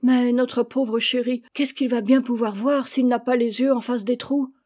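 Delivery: a mother fretting over her chick; lamenting mother. Acted. Mother frets over her chick's eyes, lamenting. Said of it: "se lamenter".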